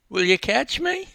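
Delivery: put-on high small boy, a touch of a tremor; scared child asking to be caught; tremor in his voice. A narrator's reading. Frightened boy asks coach to catch him, high and shaky. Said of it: "a tremor in his voice".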